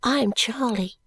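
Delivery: soft voice. A narrator's reading. Little maid introducing herself to Esther, whispered. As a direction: breathe it shyly like a little girl. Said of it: "said the little girl in a soft voice".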